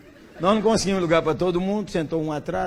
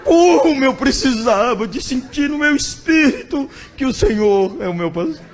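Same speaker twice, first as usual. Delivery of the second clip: grateful friend; 5 dB louder than usual. Retold or imitated. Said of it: "me abraçou".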